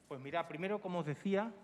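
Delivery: muffled behind a face mask; through a face mask. Real, not acted. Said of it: "esto de hablar con la mascarilla". (voz apagada por la mascarilla)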